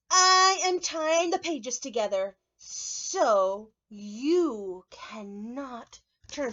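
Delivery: loud, slow determined puppet voice; Grover voice. Acted. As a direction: announce it stubbornly.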